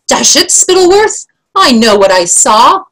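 high, indignant protest; King Fred shouting. Acted. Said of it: "shouted the king".

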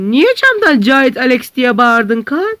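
high, loud astonished question; loud shocked question. Acted. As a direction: demand why he yelled out the window. Shocked friend questions shouting.

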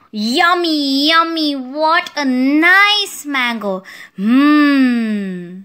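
stretched, relishing delight; happy savouring. Acted. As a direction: savour it with a long happy hum. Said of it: "I am very happy".

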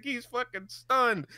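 ordinary talk, nothing marked

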